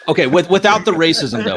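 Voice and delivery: amused laugh through a quick quip. Real, not acted. Guest laughing at the host's revolution joke, laughing loudly.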